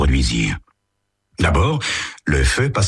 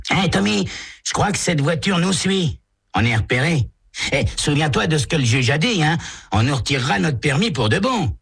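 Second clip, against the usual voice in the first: put-on higher boy's voice, uneasy; worried teen Walt; 12 semitones higher than usual. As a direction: warn your friend nervously. Walt worried about police.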